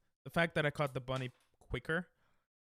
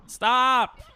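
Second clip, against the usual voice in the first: angry shout; 10 semitones higher, 15 dB louder than usual. Real, not acted. Furious at failed speedrun.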